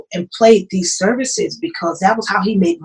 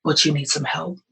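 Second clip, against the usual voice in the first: gentle husband; 3 semitones lower, 6 dB quieter than usual. Retold or imitated. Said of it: "He said".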